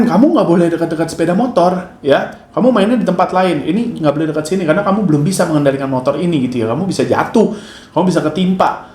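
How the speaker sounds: firm but calm warning; controlled scolding. Retold or imitated. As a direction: scold to protect, keep it steady. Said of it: "Itu saya marah loh".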